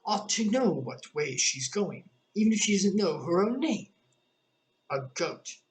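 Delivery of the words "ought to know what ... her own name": passenger voice. A narrator's reading. Passenger remark.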